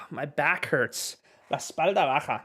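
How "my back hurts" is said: My back hurts slow, after a sigh; slow sighed demo. Shown as a demonstration. Teacher answering a viewer, slow and clear. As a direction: model My back hurts slowly. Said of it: "Me duele la espalda".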